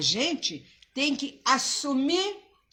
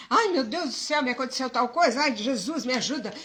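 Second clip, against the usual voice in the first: nervous; 2 semitones higher, 3 dB louder, faster than usual. Retold or imitated. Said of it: "chegar nervoso".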